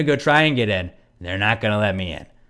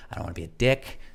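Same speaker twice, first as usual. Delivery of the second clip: lower, softer retold disclaimer; restrained appeal; 5 semitones lower, 7 dB quieter, faster than usual. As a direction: hold back, keep it low and reasonable. Retold reasonable appeal to staff.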